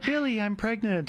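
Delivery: hammy stage actor, slow and high; thespian voice. Acted. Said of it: "I like the thespian voice there".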